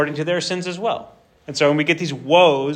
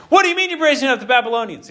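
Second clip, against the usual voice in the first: high, fast, louder disbelief; higher, quicker startled outburst; shocked prophet; 9 semitones higher, 4 dB louder, faster than usual. Acted. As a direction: fire it back, incredulous and higher.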